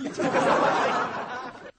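airy high laugh, falling; giggling at his own softened shout; breathy laugh. Real, not acted. Host laughing after his wolf cry, airy high laugh.

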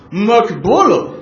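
马可波罗 said like the English Marco Polo; English-style Marco Polo. Shown as a demonstration. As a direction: give 马可波罗 an English ring. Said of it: "您听我这发音啊". (用英文腔念马可波罗)

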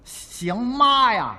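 drawn-out comic indignation; exaggerated retort. Comic asked whether he can sing it, exaggerated drawn-out retort. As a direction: stretch it out, mock-offended at being doubted.

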